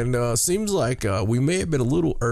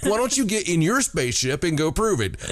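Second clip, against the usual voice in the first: sarcastic taunt; 6 semitones higher than usual. Retold or imitated. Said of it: "we just wanted to say".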